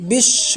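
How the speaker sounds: বিশ্ব said as bish-sho, doubled sh; বিশ্ব stressed with a long doubled sh; clear example word. Shown as a demonstration. Teacher shows students বিশ্ব with doubled sh. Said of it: "তালব্য স্বর দুইবার উচ্চারিত হবে".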